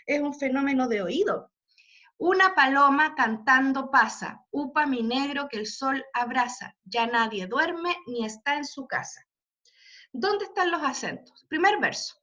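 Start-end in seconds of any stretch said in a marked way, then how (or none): 2.2-9.2 measured demonstration of a poem's rhythm; verse read for rhythm. Shown as a demonstration. Teacher reciting verse so students hear the rhythm, demonstrative recitation. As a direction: recite the verse so its accents can be heard. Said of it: "se resuelve eh, pronunciando".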